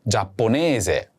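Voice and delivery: Giapponese spelled out slowly, syllable by syllable; slow teacher demo of Giapponese; slow model word. Shown as a demonstration. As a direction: say Giapponese slowly and clearly for the learner. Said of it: "Do you remember how to say Japanese?".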